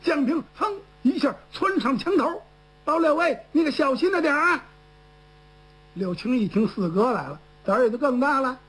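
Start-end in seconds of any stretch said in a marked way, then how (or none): 2.9-4.6 calling out. Acted. Jiang Ping calls from wall top.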